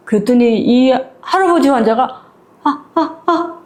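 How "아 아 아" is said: high, soft strained grunts; an old patient who can't get words out; straining old man, softly; speechless old man. Retold or imitated. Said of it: "아니라는 듯이 이렇게 하면서 말을 못해".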